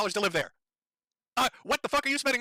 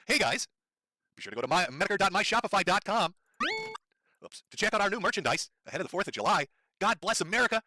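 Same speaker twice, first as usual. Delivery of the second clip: mock merch pitch. Shown as a demonstration. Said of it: "little example of how this works".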